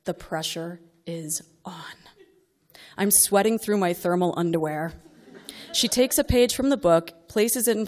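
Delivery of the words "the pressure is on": slow, much softer tense whisper. Acted. Mother narrating the tense test, hushed whisper. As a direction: hush it like the room is holding its breath.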